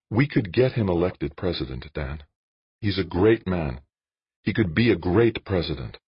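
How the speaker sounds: a hint of an earnest woman; lightly voiced Jane, earnest. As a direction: lightly raise the pitch and urge him. Narrator voices Jane pleading for Scanwell.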